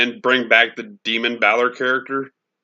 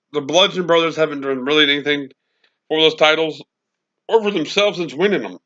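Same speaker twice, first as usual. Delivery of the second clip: hiccuping between words; with hiccups; 4 semitones higher than usual. Real, not acted. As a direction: talk through the hiccups. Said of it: "I got the hiccups".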